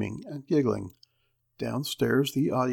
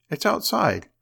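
crying out; 7 semitones higher than usual. Acted. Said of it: "cried Henry".

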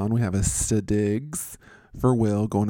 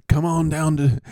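louder, higher mock Italian pizzeria pitch; mock Italian accent; 6 semitones higher, 4 dB louder than usual. Pizza place owner calling customers in, mock Italian accent. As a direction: break into a hammed-up Italian accent. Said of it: "do that accent".

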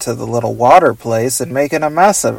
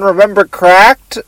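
Doctor Bug voice; 5 semitones higher than usual. Pretend. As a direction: ask it like a silly bug scientist. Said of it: "I'm just doing Professor Bug".

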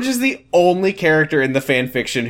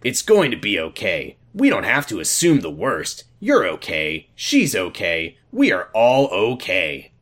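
gently reassuring, lower and measured; soothing; 4 semitones lower than usual. Acted. Father eases his daughter's pain, soothing her. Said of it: "trying to ease her pain".

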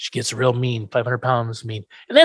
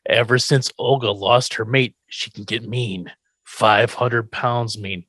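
ominous circus man; 4 semitones lower than usual. Retold or imitated. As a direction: warn them gravely, drawing out pounds mean. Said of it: "It's like".

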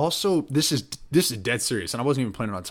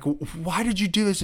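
higher-pitched imitation of a tearful plea; mock crying; 8 semitones higher than usual. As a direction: retell it as a stammering, upset question. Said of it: "I'm crying".

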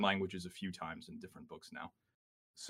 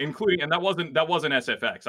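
radio voice; 7 semitones higher, 7 dB louder than usual. Shown as a demonstration. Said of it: "I can actually make my voice sound like a radio".

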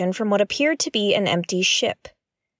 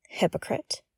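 muttered under breath; 9 dB quieter than usual. Acted. Annoyed aside under breath.

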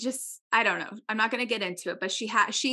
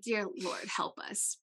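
retold muttered plea; 8 dB quieter than usual. Retold muttered prayer in embarrassment.

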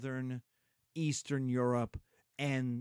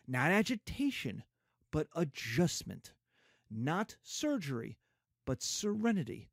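oratory reading. Retold or imitated. Teacher quoting Harding's normalcy speech, oratorical. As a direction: read it like a campaign speech. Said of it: "Warren Harding's return to normalcy speech".

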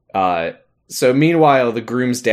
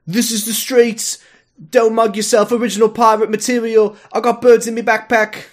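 British rapper voice; 11 semitones higher than usual. Retold or imitated. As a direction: put on a cheeky British MC voice. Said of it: "he's like".

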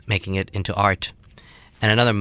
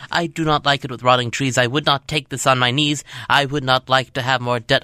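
higher, insistent whiny refusal; protesting student; 4 semitones higher than usual. Acted. Student refusing the ma'am's tuition plan, higher and insistent. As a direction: dig in your heels like a stubborn kid.

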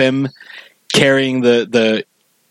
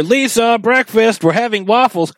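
much higher, calling from another room; imitating Marge calling; 9 semitones higher than usual. Fan imitates Marge calling Lisa to breakfast, much higher. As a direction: call the kid to breakfast like a mom. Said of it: "And then you hear".

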